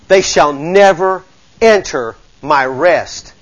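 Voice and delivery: very slow, weighing each word; slow solemn repeat. Shown as a demonstration. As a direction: let "They shall never enter my rest" sink in slowly. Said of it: "repeated slower".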